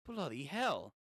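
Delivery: "Bloody hell" in a light mock British accent. Shown as a demonstration. Reader switching to British for a manga line, mock British accent. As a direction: say "Bloody hell" like a Brit, half-joking. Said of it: "British for a second".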